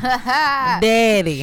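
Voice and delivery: high, loud, angelic call of daddy; heavenly voice. Acted. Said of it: "heavenly voice".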